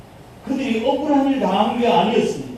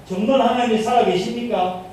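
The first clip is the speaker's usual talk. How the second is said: complaining; 4 semitones higher than usual. Retold or imitated. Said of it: "그렇게 불평하는 거예요".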